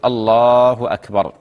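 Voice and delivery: drawn-out adhan takbir, slow; muezzin-style takbir with a long-held vowel; adhan call. Shown as a demonstration. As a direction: call the takbir slowly, stretching Allah. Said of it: "يكبر ال-، المؤذن أربع تكبيرات، يقول".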